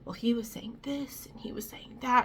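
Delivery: hushed, high, voiceless whisper; soft conspiratorial whisper, imitating someone; retold whispering. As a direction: whisper it like gossip on the sly. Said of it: "she's, like, whispering things to me".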